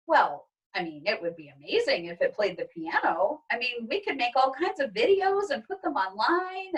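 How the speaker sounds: lightly voiced excited mother; dreaming of viral videos; mother's voice. Mother interrupting with an idea, lightly excited.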